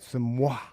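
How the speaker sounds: Samoa stretched out, every syllable drawn long; exaggerated Samoa. Shown as a demonstration. Host showing guest how to exaggerate her name, drawn out. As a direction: lean into Samoa like a kiss. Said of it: "you have to exaggerate it".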